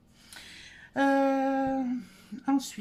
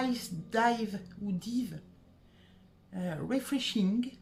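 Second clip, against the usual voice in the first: slow, clumsy English accent on the product name; bad English accent; 2 semitones lower, much slower than usual. Shown as a demonstration. Vlogger reading a shower gel label, bad English accent. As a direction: read it slowly in a rough French-speaker's English. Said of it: "On va faire l'accent anglais pourri".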